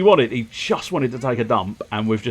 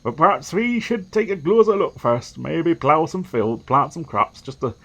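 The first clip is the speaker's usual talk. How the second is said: lightly voiced inquisitor reporting; a hint of a self-important heretic hunter; zealous envoy; 4 semitones higher than usual. Envoy sent by children of Argon reports on the farm, lightly voiced zealot.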